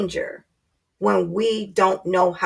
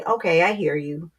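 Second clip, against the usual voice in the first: calm acknowledgement; 3 semitones lower, 3 dB quieter than usual. Retold or imitated. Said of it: "listen and say".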